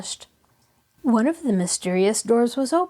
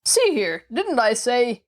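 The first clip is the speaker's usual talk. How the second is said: angry voice; 3 semitones higher than usual. Acted. Bedridden man scolding whoever comes in, angry. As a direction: start an indignant scolding. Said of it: "began an angry voice".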